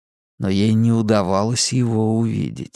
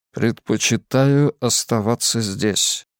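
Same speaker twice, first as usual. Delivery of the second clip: mysterious man; slower than usual. Acted. Lazarus in the darkness.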